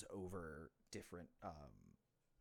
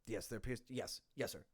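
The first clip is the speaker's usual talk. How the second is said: dwarf on the radio; 3 dB louder than usual. Acted. Dwarf reports on communication device.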